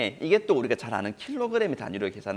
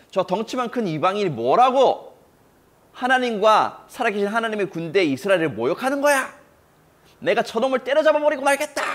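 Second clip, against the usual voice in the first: indignant boast; 7 semitones higher, 6 dB louder than usual. Acted. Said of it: "분노의 말을 막 쏟아내기".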